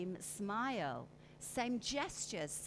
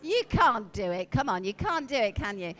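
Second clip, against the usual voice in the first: teasing; 11 dB louder than usual. Real, not acted. Teasing the laughing room.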